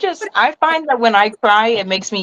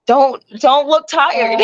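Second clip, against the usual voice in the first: higher, drawn-out talking to oneself; urgent self-reminder; 5 semitones higher, slower than usual. Retold or imitated. Telling herself to hide her tiredness, slow self-coaching. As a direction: slowly coach yourself, pitched up. Voices own thought while fighting tiredness.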